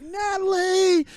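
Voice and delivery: high drawn-out slow cry of the name; brother's yell. Retold or imitated. Brother crying out his sister's name, half laughing. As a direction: call out while trying not to laugh. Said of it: "He just goes like".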